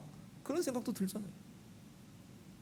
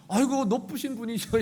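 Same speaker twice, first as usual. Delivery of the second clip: mock pompous; 2 semitones higher, 4 dB louder than usual. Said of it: "우리 아들이 달려오지".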